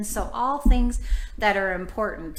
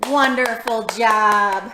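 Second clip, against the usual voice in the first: gasping praise; 7 dB louder, slower than usual. Real, not acted. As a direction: gasp then loud, slow delighted praise. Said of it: "praising children after song".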